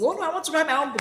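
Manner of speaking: mock eager author. Mocking would-be author.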